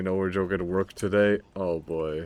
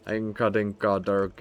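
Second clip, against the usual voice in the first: fake German gibberish. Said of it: "I speak the funny fake German language".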